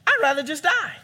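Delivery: exasperated outburst. Acted. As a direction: throw up your hands and cry it out.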